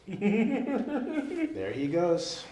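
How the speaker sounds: drawn out between laughs; laughing. Real, not acted. Teller laughing as the fan takes off.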